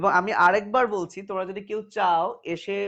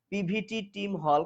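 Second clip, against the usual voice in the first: slow mnemonic. Shown as a demonstration. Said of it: "খবরদার এই ছন্দ পড়বা না".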